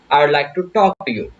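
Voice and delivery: slow polite sentence. Shown as a demonstration. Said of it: "बहुत polite होके बात करनी है".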